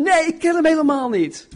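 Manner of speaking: high, sharp denial of Peter; indignant high-pitched denial; angry denial. Acted. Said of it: "En hij werd boos".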